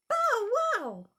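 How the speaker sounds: high squeaky bow wow; puppy bark. Shown as a demonstration. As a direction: yap like a little puppy. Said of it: "can you sound like Puddles".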